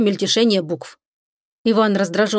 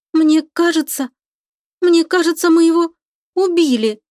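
high, rising, louder fearful voice; frightened; 8 semitones higher, 4 dB louder than usual. A narrator's reading. Лика боится, что они убили свешера, испуганно. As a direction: blurt out the dread, climbing higher. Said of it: "испугалась Лика".

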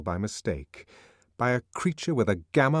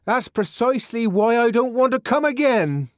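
high, loud stubborn shout; loud refusal; 10 dB louder than usual. Acted. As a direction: yell back through the door. Refusing through a locked door.

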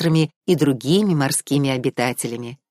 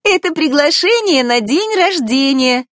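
higher and louder joyful cry; excited exclamation; 12 semitones higher, 5 dB louder than usual. A narrator's reading. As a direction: burst out with delight. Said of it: "воскликнула она".

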